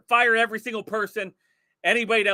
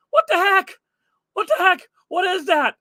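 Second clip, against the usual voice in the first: higher, louder outraged what the heck; shocked disbelief; 9 semitones higher, 5 dB louder than usual. Real, not acted. Host reacting to the filthy kitchen floor, shocked. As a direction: gasp at the mess in disbelief.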